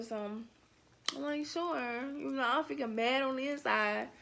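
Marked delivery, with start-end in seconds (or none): 1.5-2.0 forced polite. Retold or imitated. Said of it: "trying to be all classy".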